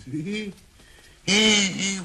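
calling out to a startled bird. Acted. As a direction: call after it before it flies.

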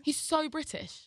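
drawn-out "so" before British; emphatic stretch. Real, not acted. Stressing how British he is.

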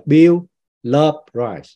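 "Bill of Rights" run together as one word; linked together. Shown as a demonstration. Teacher showing students linked reading: "Bill of Rights" run together. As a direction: glide "Bill of Rights" smoothly without breaks. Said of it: "đọc nối tiếp luôn đó là".

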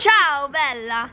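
slow, drawn-out Italian accent. Shown as a demonstration. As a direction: savour each word in an Italian accent. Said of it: "Okay, that's better".

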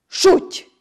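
very loud, high "sutty" shot out; explosive chop sound. A narrator's reading. Hero cutting off the fourth head, explosive. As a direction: imitate a violent blade stroke.

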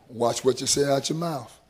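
low and soft, lean in close on "Watch what you say out your mouth"; hushed warning. Real, not acted. Hushed warning, later shouted.

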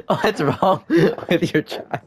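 laughing. Real, not acted. Laughing while asking.

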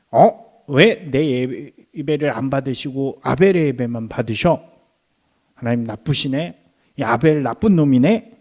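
indignant grumbling as Cain; angry Cain. Pretend. Cain angry at God and Abel. (하나님과 아벨을 탓하며 투덜대는 가인)

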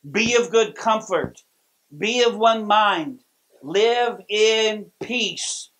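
very slow, weighted reading of "Be of good comfort"; deliberate preaching reread; slow emphatic scripture. Acted. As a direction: stretch "Live in peace" out word by word. Rereads verse slowly for emphasis.

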